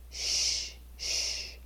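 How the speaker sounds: soft unvoiced shh; shushing. Shown as a demonstration. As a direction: hush them like a teacher. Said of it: "using your fingers to make the shh motion".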